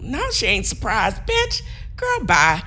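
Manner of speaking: high, punchy sassy retort; sassy clapback. Pretend. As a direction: snap back with attitude. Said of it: "This is what I would have said".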